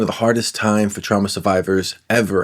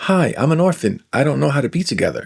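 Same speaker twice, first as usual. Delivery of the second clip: self-mocking; 4 semitones higher, faster than usual. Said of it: "That's me".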